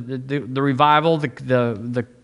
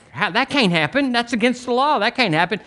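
shocked disbelief; 9 semitones higher than usual. Retold or imitated. Kinfolk shocked at losing savings.

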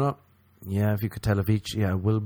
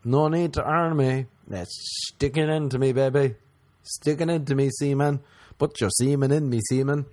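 mock horny queen; 4 semitones higher than usual. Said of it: "Where she was like".

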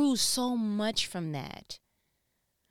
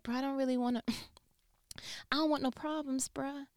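soft higher whisper, laughing; timid peacemaker; 6 semitones higher, 6 dB quieter, faster than usual. Retold or imitated. Her peaceful side whispering she wants no problems. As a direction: back away meekly, no trouble wanted. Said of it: "I'm like".

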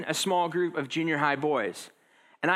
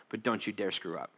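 hushed warning; 8 semitones lower, 7 dB quieter than usual. Acted. Sarcastic cultural warning.

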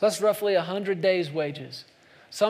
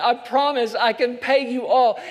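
laughing plea; 4 semitones higher, 3 dB louder than usual. Retold or imitated. Servant pleading, preacher laughing.

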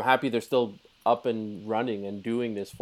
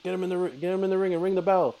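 higher, urgent mock plea; 5 semitones higher than usual. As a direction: hurry them up, half-joking. Mocking impatient ref logic.

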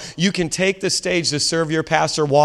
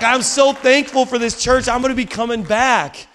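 high-pitched, overwhelmed gratitude; imitated weeping; 8 semitones higher than usual. Woman thanking pastor for the church, tearfully moved. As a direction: act her gushing thanks, voice pitched up. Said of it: "she's just weeping and weeping".

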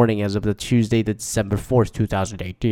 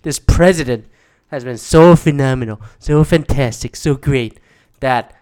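louder, mock-glowing praise for this president; sarcastic praise; 5 dB louder than usual. Real, not acted. Vlogger mocking the president, louder sarcastic gushing. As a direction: lay the praise on thick, dripping sarcasm. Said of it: "repeats this president louder".

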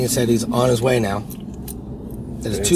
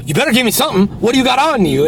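high, louder mock threat; retold demand; 11 semitones higher, 5 dB louder, faster than usual. Shaking down the tourists for cash, retold angry demand. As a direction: act the shakedown, pushy and loud. Demanding money from the other driver.

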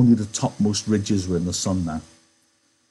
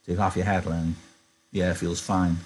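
shaky. Acted. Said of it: "He said shakily".

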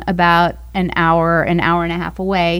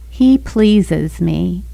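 sweet little voice; 3 semitones lower, much slower than usual. Retold or imitated. Wife recalling God's voice while she circles the airport, slow and gentle. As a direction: voice a kind inner voice that stops her short. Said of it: "this little sweet voice that said".

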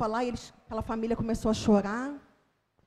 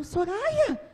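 desperate mother; 10 semitones higher, 3 dB louder than usual. Retold or imitated. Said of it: "desesperados, me esperando, falando assim".

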